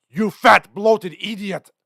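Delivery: high, loud Peter Lorre impression; Joel Cairo. Old cartoons spoofing a film villain, high outraged Lorre voice. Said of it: "you know, Joel Cairo".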